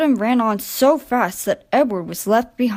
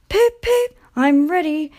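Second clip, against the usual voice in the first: high cheerful voice; 7 semitones higher, 4 dB louder than usual. Acted. Little engine chirps cheerfully.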